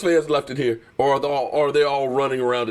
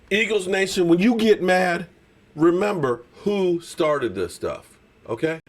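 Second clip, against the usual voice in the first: taunting; 3 semitones higher than usual. Real, not acted. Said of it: "taunting Eagles fans slowly".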